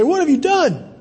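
high-pitched, incredulous demand; acted reproach, pitched well up; confronting question. God questions Eve after the sin, confronting.

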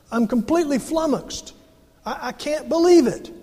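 flummoxed Paul. Retold or imitated. Preacher voices Paul stunned by the Galatians, incredulous. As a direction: sound like you can't believe your ears. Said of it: "he says".

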